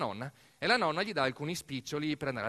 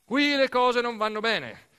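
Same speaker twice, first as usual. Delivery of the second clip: higher, louder factory boss addressing the workers; stern boss speech; 7 semitones higher, 7 dB louder than usual. Retold or imitated. Commendatore Randaccio scolding workers in the canteen, loud and stern. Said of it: "Discorso in Sala Mensa".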